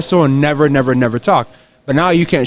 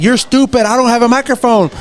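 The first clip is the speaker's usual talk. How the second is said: higher, scornful jab; mocking heel; 6 semitones higher than usual. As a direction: sneer it at the lady. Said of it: "And he's like".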